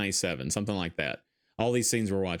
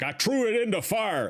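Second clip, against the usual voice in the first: imitating an old Midwestern hockey dad accent; lightly done Midwestern old man accent; 11 semitones higher than usual. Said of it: "the best old man Midwestern accent".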